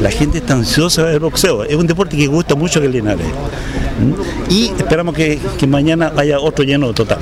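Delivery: natural Caribbean Spanish accent; everyday Caribbean Spanish speech. Real, not acted. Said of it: "con ese acento caribeño".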